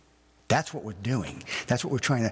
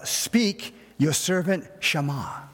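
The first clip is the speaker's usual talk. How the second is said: lightly voiced Samuel; 4 semitones higher, slower than usual. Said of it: "he says".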